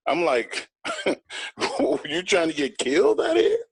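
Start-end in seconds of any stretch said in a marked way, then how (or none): 1.1-3.6 higher, slow mock menace; retold threat. Retelling how he threatened Jordan, slow mock menace. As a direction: lean in slowly, a menacing warning.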